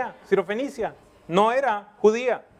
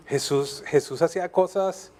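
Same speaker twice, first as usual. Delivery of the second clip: normal talking voice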